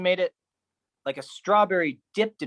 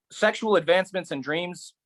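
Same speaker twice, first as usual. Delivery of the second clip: "Sexual" higher, ending on a rise; higher echo; 4 semitones higher than usual. Acted. Poet echoing the list, higher and rising. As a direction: lift the repeat up, ending rising. Echoed phrase, second take.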